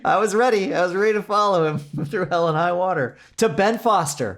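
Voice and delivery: high, heightened proclamation of loyalty; mock-grand declaration. Host pledges to follow an actor through hell, mock-grand. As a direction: declare devotion with comic fervor, slowing on the name.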